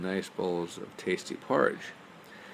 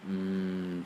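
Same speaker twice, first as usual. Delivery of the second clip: satisfied mmm. Acted. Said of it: "she said".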